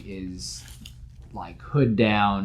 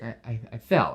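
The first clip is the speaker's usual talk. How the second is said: stammering; 2 semitones higher than usual. Acted. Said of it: "just starting to stammer".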